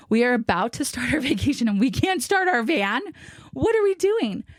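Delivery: mock exasperation, pitch climbing to the end; retold exasperation. Wife retelling her reaction to the dead van, exasperated.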